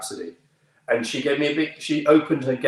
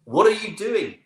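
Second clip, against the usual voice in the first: much higher, insistent South African repeat; South African accent; 10 semitones higher, 4 dB louder than usual. Retold or imitated. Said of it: "forgive my accent here".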